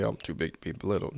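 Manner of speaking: quick boastful "Oh, I'm too big to be belittled."; show-off version; mock bragging. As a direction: brag it fast to everybody. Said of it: "telling everybody".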